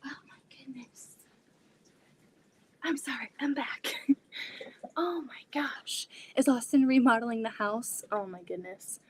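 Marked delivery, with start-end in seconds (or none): 0.0-3.9 breathless whispered return; hushed relief after the scare; real whisper. Real, not acted. Back, catching breath, hushed. 5.0-6.1 whisper. Real, not acted. Hushed disbelief.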